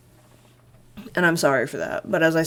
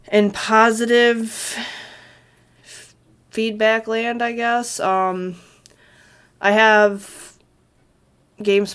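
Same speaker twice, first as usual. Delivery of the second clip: brighter upbeat; 5 semitones higher, 5 dB louder, slower than usual. Real, not acted. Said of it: "switches to upbeat topic".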